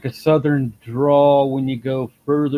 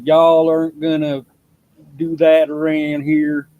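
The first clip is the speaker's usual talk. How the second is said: redneck drawl; 2 semitones higher, 6 dB louder than usual. Retold or imitated. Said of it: "you got that redneck sounding, sounding drawl".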